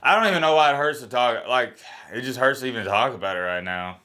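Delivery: starts high and loud, then sinks back; emotional, voice jumping up then settling; real choked-up emotion. Real, not acted. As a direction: push the words out through the hurt. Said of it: "Why am I getting emotional right now?".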